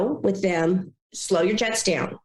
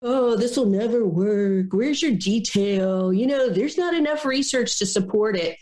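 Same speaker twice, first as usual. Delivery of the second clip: complicator's objection; 3 semitones higher than usual. Retold or imitated. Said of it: "you know who those complicators are".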